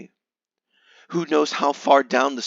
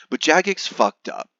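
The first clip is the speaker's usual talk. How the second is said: hammy stage actor; 5 semitones higher than usual. Acted. Dramatic turn in the story.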